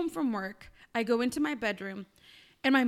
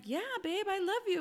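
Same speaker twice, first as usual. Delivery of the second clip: higher, softer loving reassurance; tender; 7 semitones higher, 4 dB quieter than usual. Retold or imitated. Girlfriend answering her boyfriend's question, tenderly. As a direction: re-enact a sweet, soft yes. Retold private talk with boyfriend.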